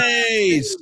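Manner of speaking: big whooping shout; cheering shout. Real, not acted. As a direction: holler it out in approval. Cheering on a departing listener.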